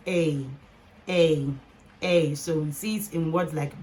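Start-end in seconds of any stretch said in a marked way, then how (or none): 0.1-2.3 "A" said alone as "ay", repeated; long A sound. Shown as a demonstration. Teacher introducing the last E A sound, long ay. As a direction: separate each held "A" with a pause. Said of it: "the last E A sound gives us".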